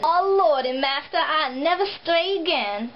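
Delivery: hammed-up old Southern servant voice; bad slave-dialect impression. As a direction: overplay a pleading servant, badly. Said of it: "that was a really bad impression".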